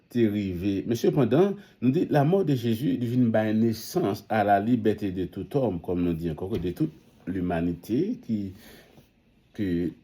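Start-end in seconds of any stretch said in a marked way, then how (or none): 0.9-5.8 louder and higher, preaching with fire; fervent proclamation. Real, not acted. Preacher to the congregation about Jesus' death, loud fervent proclaiming. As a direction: lift the voice to proclaim freedom.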